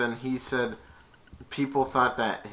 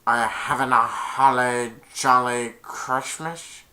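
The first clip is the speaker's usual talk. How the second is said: Jim Carrey impression. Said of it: "I'm trying to im-, do an impression".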